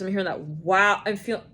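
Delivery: ordinary talk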